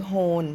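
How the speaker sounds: โฮน said ending in n, hon, not l; wrong pronunciation. Shown as a demonstration. Teacher showing viewers a second wrong way, โฮน. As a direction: swap the final l for an n in โฮน. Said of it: "เราจะไม่ออกเสียงว่าโฮ หรือโฮน".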